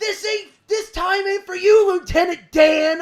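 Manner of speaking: very loud, high-pitched scream. Retelling how a wrestler screamed after kicking an opponent: imitating MJF screaming. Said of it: "he kicks him in the face and screams".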